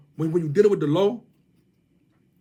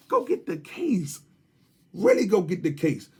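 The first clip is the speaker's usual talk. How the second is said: mocking taunt; 2 semitones higher than usual. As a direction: drag it out to mock him.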